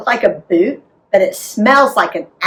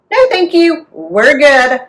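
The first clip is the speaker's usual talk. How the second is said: firm mom voice; 5 semitones higher, 5 dB louder than usual. A narrator's reading.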